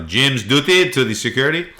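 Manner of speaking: put-on slightly French-accented announcement; lightly French-tinged paging voice; French-sounding airport page. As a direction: page someone with a hint of French. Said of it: "I sounded French there".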